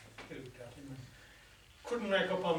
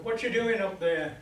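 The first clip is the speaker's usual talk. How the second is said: raised, higher call without a full yell; mock shout; 4 semitones higher, 4 dB louder than usual. Policeman to a man hanging from the clock tower, mild shout. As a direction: call it upward, moderately raised. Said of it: "the policeman shouted".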